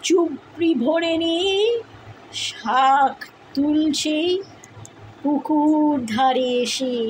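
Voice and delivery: measured verse reading with lingering pauses between phrases; poem recitation. Acted. Parent recites Tagore's poem to a crying child, expressive recitation.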